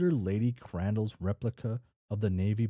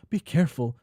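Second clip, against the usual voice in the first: loud warning call, higher; yelled; 7 semitones higher, 7 dB louder than usual. A narrator's reading. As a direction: shout it to her husband. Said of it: "Miss Crandall yelled".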